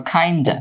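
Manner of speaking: খাইন্ডা, kind of merged as "kinda"; spoken reduced form. Shown as a demonstration. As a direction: end খাইন্ডা on a loose "duh". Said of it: "spoken ইংলিশে বলতে পারো".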